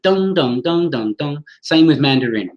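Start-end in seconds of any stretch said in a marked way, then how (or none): 0.0-1.4 "dung, dung, dung" in equal beats; syllable-timed rhythm. Shown as a demonstration. Teacher showing Cantonese rhythm to class, even syllable-timed beat. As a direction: give every "dung" the same weight. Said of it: "That's that very, um, that very sort of".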